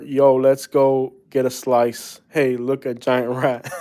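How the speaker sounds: slow, lightly put-on New York accent; a hint of stereotype New Yorker, drawn out; stereotypical New Yorker. Playing a stereotypical New Yorker, with a light New York accent. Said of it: "Stereotypical New Yorker".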